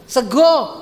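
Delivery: brief lordly order; commanding husband. Acted. Solo husband demanding rice, curt command. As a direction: order it like a seated king. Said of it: "perintah istri".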